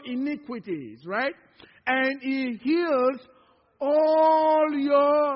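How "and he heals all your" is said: loud preaching emphasis. Acted.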